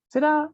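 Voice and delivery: "¿será?" swung up high at the end, like a real question; rising question tune. Shown as a demonstration. Teacher showing students a rising question on "¿será?". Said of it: "tiene una entonación ascendente".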